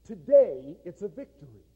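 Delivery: preacher booming the joke's punchline; loud punchline. Acted. Joke punchline delivered loud.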